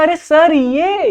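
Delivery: high, drawn-out student protest. Acted. Acted student protesting to teacher.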